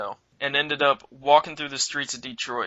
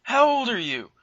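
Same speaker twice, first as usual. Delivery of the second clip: questioning cop; 9 semitones higher than usual. Retold or imitated. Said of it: "He goes".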